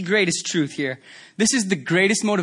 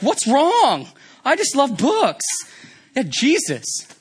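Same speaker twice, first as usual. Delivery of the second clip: much higher, light mock excitement; mock giddy book lover; 7 semitones higher, slower than usual. Preacher imitating a Christian suddenly loving books, gushing. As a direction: play the gushing new believer wondering what changed.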